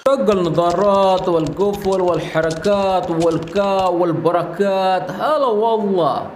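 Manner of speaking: slow, careful Arabic phrase; slowed-down Saudi phrase; slow repeat. Shown as a demonstration. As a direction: spell it out slowly for learners. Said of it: "दोबारा से सुन लें".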